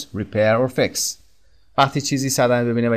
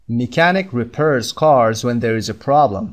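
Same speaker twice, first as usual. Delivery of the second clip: slow model reading; much slower than usual. Shown as a demonstration. Teacher reads the definition to learners, very slow and careful. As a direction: read "Builds or repairs homes" very slowly, word by word. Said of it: "teacher models definition sentence".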